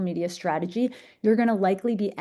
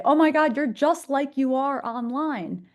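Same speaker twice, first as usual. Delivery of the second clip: excited fan quote; 6 semitones higher than usual. Retold or imitated. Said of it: "and they say".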